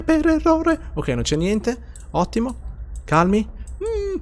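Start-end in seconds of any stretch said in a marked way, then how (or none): 0.0-0.9 squeaky high echo. Pretend. Ripetizione con voce acuta.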